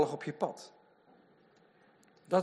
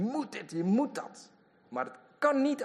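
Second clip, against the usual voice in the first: mock nagging; 10 semitones higher than usual. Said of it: "dat de mensen tegen je roepen".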